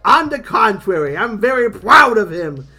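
proud comic robot, lightly put on; indignant little robot, punching key words; the speaker's robot voice. The speaker answers Buck about Judge Dredd, proud cartoon voice.

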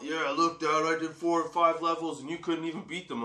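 put-on a cocky boy teasing his dad, mildly; imitating his son. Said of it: "he's all".

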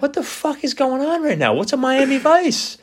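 very high-pitched mock panic; bewildered outburst. New bartender stumped by a drink order, high-pitched panic. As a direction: squeal it in exasperated disbelief.

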